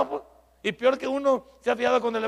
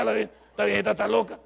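"esta viejita está loca" said again, louder; boy thinking about his grandmother, louder exasperated repeat; 5 dB louder than usual. Retold or imitated. Push it out louder in frustration. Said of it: "Y esta viejita está loca".

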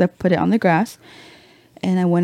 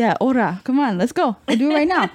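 higher, climbing egging-on; mock challenge; 6 semitones higher than usual. Dad squaring up to the neighbor, mock challenge. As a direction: goad him into it, pitch rising.

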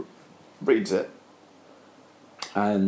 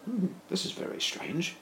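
puzzled musing; 12 semitones higher, 9 dB quieter than usual. Acted. Character muses at found paper.

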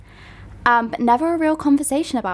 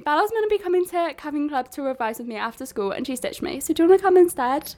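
higher, lightly whiny retold complaint; mock upset plea; 3 semitones higher than usual. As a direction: play the hard-done-by friend. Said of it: "I was like".

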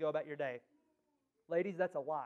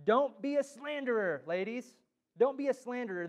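emphatic warning; 5 semitones higher, 5 dB louder than usual. Real, not acted. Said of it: "emphatic repeated warning".

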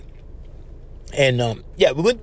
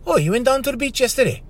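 higher, overdone textbook repeat; mock stilted echo question; 9 semitones higher, faster than usual. Radio guest echoing the professor, hammed-up stiff question. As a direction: parrot the line back as a stiff question. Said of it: "the guy goes".

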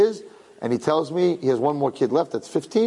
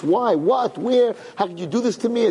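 higher-pitched mock protest; imagined protest; 5 semitones higher than usual. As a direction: question God like a wronged parent. Imagines himself protesting to God.

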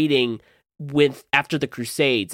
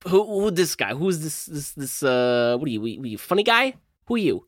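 put-on slipping Italian American accent; lightly voiced tough-guy Italian American, faltering. Cosimo confronts the stranger, wobbly Italian American accent. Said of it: "I'm changing accents".

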